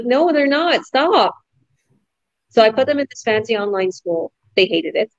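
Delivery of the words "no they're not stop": mock scolding. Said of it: "I'm like".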